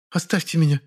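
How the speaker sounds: a woman snapping to be left alone; sharp woman. Acted. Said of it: "ответила Муза резко".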